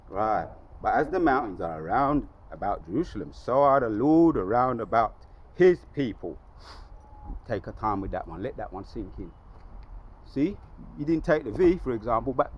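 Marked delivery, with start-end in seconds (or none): 0.8-6.4 deliberate verse reading, building louder; scripture recitation. Acted. Preacher repeating the mountains verse to sink in, declamatory. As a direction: declaim it, leaning into the second half.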